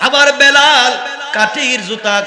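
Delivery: high, loud, tearful calling out.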